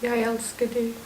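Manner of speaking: deliberately bad line reading; bad acting. Shown as a demonstration. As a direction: say it badly on purpose. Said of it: "Say it badly".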